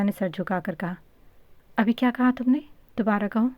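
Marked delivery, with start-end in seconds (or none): 1.8-3.5 delighted disbelief, a bit higher and louder; thrilled surprise from the mother; surprised and happy. A narrator's reading. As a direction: ask again, overjoyed and amazed. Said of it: "حیرت اور خوشی سے کہا".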